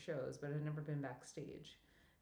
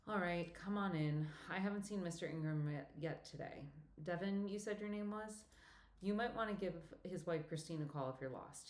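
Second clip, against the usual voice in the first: put-on older woman Betsy. Betsy's lines voiced.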